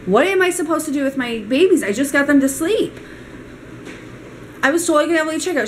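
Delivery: re-enacted exasperation at the front desk; exasperated pleading. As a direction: plead your case, mildly frantic. Retold pleading argument with front desk.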